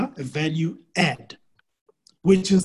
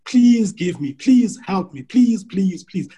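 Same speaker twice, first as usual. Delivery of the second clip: raised, louder mock plea; mock begging; 4 semitones higher, 5 dB louder, slower than usual. Coach imitating people who approach corporates begging, mock pleading. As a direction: plead repeatedly, acting out a beggar. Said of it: "with a begging bowl".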